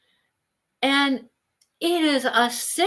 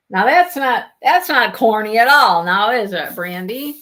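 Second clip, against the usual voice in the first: sarcastic tease; 6 dB louder than usual. Real, not acted. Teasing corny dragon name.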